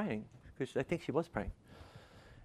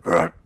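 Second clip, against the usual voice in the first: belch; 6 dB louder than usual. Retold or imitated. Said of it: "He went".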